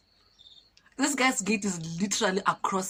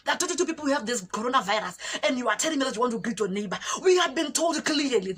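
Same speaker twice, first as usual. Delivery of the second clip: heated, higher-pitched soldier's rant; mock scolding tirade, pitched up; imitated angry shouting; 5 semitones higher than usual. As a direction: berate someone with rising emphasis. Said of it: "shouting at me".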